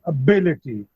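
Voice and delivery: ability, with the weight on bi; stress on second syllable. Shown as a demonstration. Teacher showing students the stress in ability. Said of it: "the stress would be on B".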